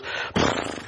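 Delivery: short unvoiced snort like a horse; horse snort imitation. Preacher imitating an angry horse snorting, playful. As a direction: blow air through the lips like a horse. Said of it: "like when a horse goes".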